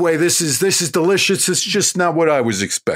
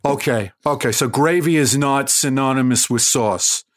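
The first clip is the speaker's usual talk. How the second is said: put-on Queens accent; 3 semitones lower than usual. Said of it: "I'm from Queens".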